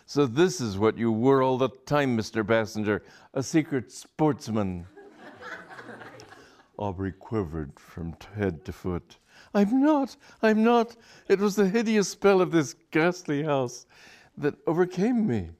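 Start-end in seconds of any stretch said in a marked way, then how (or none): 0.0-4.9 tense, louder scorn; mild tense scorn; scornful. Acted. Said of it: "tense with a scorn". 9.5-15.5 much higher, loud pleading; high, loud panicked plea; frantic denial. Acted. Aubrey frantically denies accusation.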